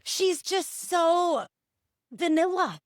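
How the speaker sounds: high, slow, mocking stretch; mocking drawl. Real, not acted. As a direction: drag it out with disdain. Mocking the AI's voice.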